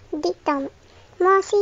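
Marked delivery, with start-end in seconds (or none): 1.2-1.6 put-on a touch of eager child exclaiming; a small lift of eager excitement. Anna chimes in to the adults, mildly exclaiming. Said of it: "s'exclama Anna".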